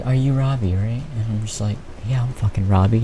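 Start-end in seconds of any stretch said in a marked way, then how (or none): 0.0-1.0 soft, mock-sweet question; soothing teacher. Teacher asking student if they're Robbie, soothing. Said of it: "like a nice soothing voice". 2.1-3.0 soft, resigned fake agreement; deadpan sarcasm. Student answering teacher's wrong name, quietly sarcastic.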